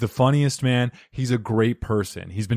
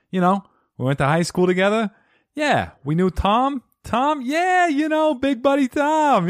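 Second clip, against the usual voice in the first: goofy buddy voice; 13 semitones higher than usual. Acted. Mock high school buddy voice.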